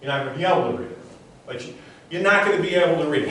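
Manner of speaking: firm, insistent suggestion; intense mind reader. Shown as a demonstration. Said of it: "what I'm saying to her is".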